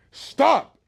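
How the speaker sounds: loud, high acted yell; one sharp, exasperated shout; shouted command. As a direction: yell it at someone walking away. Retold soldier yells after being ignored.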